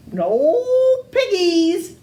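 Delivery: slow lowing cow voice; mooing. Acted. Cow mooing back at the witch, slow and drawn out. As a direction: let the words moo out slowly. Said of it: "mooed the cow".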